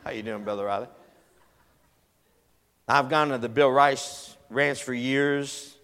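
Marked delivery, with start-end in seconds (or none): 0.0-0.9 sly note voice. Retold or imitated. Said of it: "that's the note".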